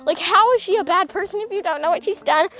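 high-pitched retold disbelief; incredulous. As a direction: act out baffled questioning in an argument. Retelling own incredulous argument.

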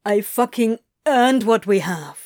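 mildly forceful, strained insistence; swearing, vehement. Acted. Crowley insisting to Adam, vehement. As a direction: insist on it with feeling. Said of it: "Crowley swore".

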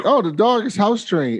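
high, giggling through the words; mock-innocent laughing reply; laughing quote. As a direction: laugh while saying it.

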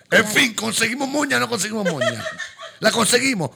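high laughing words. Real, not acted. Friend laughing at a rambling message, high and loud. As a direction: laugh through the question.

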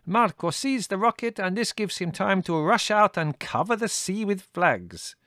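put-on high, accented Greek lady, matter-of-fact; a lively foreign lady explaining the plan; Lena's voice. A narrator's reading. Lena explaining.

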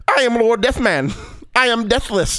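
hammed-up grand villain declaration; lightly voiced dramatic villain; mock villain boast. Skit villain announces himself to Batman, mock grand. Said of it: "He's like".

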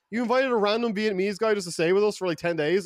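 incredulous high-pitched question; retold disbelief. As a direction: challenge a friend in mock disbelief. Retelling his disbelief at friend.

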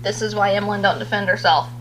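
husband quietly muttering back. Retold or imitated. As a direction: grumble it under your breath. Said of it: "Ryan just looks at me like".

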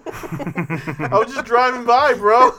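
slow, drawn-out mock innocence; train's innocent excuse. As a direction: play the train pleading innocent, slowly. Voicing the train in court.

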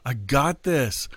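a touch of a show-off waving mourners away; cocky brush-off. Retold or imitated. Preacher imitating a careless Jesus hushing the mourners, smug. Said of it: "He did not say".

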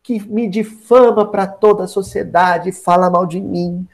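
slow, drawn-out mock suffering; milk the woe slowly, as a scheming mother would; craftily plaintive. Herodias manipulates her daughter against João Batista, hammed-up craftily plaintive. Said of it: "muito ardilosamente, falou".

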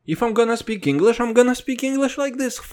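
slow, heavy Russian accent in English. Shown as a demonstration. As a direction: lay the Russian accent on thick, slowly. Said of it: "אפילו באנגלית אני לא מתאמץ".

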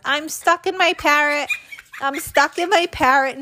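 put-on high, panicky child's cry of alarm; panicked shout. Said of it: "I panicked and shouted".

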